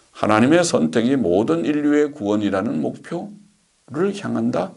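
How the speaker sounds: requote it as a doubtful question, pausing before the last word; skeptical questioning. Real, not acted. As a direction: query the quoted claim with a rising lilt. (의아한 듯 되묻는 말투)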